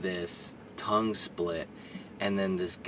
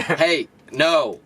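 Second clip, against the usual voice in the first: loud, raised-pitch mock reprimand; mock scolding shout; 6 semitones higher, 6 dB louder than usual. Boss overhearing the worker's plan to sneak in, mock scolding. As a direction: cut him off like a boss, half laughing. Acting boss catching him talking aloud.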